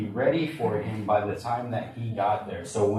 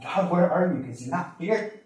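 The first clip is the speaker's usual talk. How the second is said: crying out to God; 2 semitones higher than usual. Retold or imitated. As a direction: act out a desperate cry to God. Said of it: "That's what I was crying out inside".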